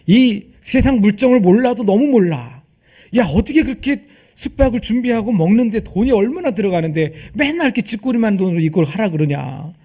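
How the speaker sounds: mock griping behind the master's back; acted grumbling. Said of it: "아마 뒷담화도 많이 했을 것 같아". (답답한 듯 투덜대는 뒷담화 흉내)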